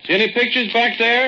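high loud call into the dark; loud call into the cave. Acted. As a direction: shout it back to her. Calling to Lucille deep inside.

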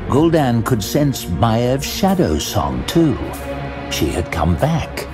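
ordinary delivery

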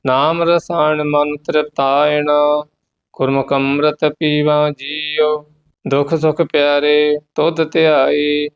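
measured, devout path recitation; scripture recitation. Acted. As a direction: recite the hymn steadily and reverently. (ਪਾਠ ਦਾ ਉਚਾਰਨ)

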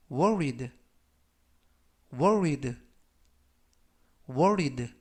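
worried read slowly, each sound clear; slow model reading. Shown as a demonstration. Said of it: "제가 천천히 세 번씩 읽어드리고요".

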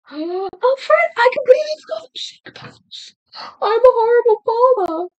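high, loud horrified gasp; sudden real panic at a mistake; oh no, I forgot; gasping dismay. Real, not acted. Panics over forgotten task.

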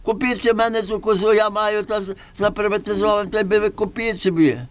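high, sing-song peddler voice; comic Gypsy trader. Acted. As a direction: hawk the goat like a trickster. Gypsy seller pitching goat.

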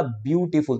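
"ब्यूटीफुल" lightly separated as ब्यू-टी-फुल; broken into syllables. Shown as a demonstration. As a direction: mark each of the three beats in "ब्यूटीफुल". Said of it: "तोड़ो से". ("ब्यूटीफुल" को हल्का तोड़ कर)

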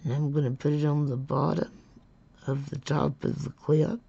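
talking around a pen held in the mouth; words muffled by a pen between the teeth. Real, not acted. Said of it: "I've got this pen in my mouth trying to talk".

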